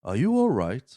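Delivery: mock concerned question with a big swoop; Christopher Lloyd. Christopher Lloyd standing over the waking boy, mock concern. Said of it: "stands over and going".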